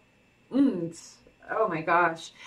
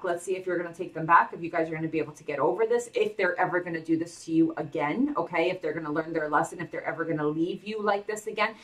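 usual speaking voice

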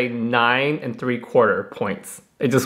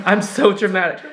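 laughing; 4 semitones higher than usual. Real, not acted. Laughing at herself.

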